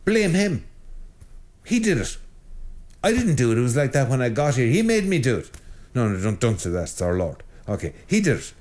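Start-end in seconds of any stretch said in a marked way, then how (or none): 0.1-5.5 put-on higher, whiny kid pushing the blame away; a hint of a sulky schoolboy caught out; childish blame-shifting. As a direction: play the guilty child pointing at someone else. Acting a guilty child blaming.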